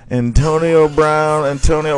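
excited disbelief. Real, not acted. Disbelief at walkout.

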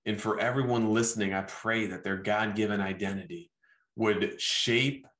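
measured, gently paced spoken blessing; closing prayer. Real, not acted. Preacher asks the Father to bless everyone listening, closing prayer. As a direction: pray over the listeners in unhurried phrases with pauses.

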